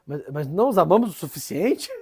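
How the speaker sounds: mildly indignant, pitch climbing on the question; retold indignant protest. João answers the former pupils who say love is lacking, indignant. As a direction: play a saint revolted at being told he falls short. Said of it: "ele fica assim, revoltado, fala".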